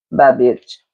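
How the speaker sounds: low, dismissive kiss-off; sassy brush-off. Retold or imitated. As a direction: drop it coldly like a final goodbye. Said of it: "Deets ain't gonna say it like that".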